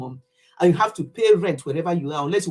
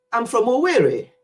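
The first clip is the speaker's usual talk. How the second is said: put-on higher, lilting English-accented Owerri; children's English accent; 4 semitones higher than usual. Nigerian children naming their village in an English accent. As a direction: imitate British-born children saying Owerri. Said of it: "pronounce it in their own accent".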